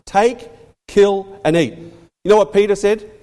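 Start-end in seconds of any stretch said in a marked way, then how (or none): 0.1-1.8 crisp imperative on Take, kill, and eat; firm command. Retold or imitated. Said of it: "It was a command".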